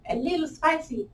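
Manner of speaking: high, soft squeak of strain; playful high-pitched wince from the burn; voice going up. Real, not acted. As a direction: lift the voice high and small. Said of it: "when my voice goes up".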